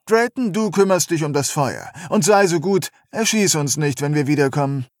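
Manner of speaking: höher, herablassend befehlend; überheblicher Anführer. Acted. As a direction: Befehle von oben herab. Kerster gibt Befehle. (überheblicher Anführer)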